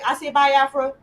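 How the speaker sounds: "Biafra" said with a long I, bye-AF-ra, asked as a question; host tries "Biafra" as bye-AF-ra, unsure; checking pronunciation. Shown as a demonstration. Host checking with guest, "Biafra" with long I sound. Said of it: "Am I saying it right?".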